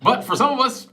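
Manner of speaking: giggly high punchline; laughing punchline. Real, not acted.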